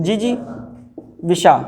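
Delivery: जिजीविषा stretched out, ji-ji-vi-shaa; slow dictation. Shown as a demonstration. Teacher checking a student's spelling, slowly sounding the word. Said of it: "ये इन्होंने क्या लिखा है?".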